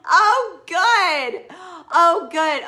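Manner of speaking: loud, high burst of relief; relieved delight. Real, not acted. The client signals she loves it, loud relieved burst.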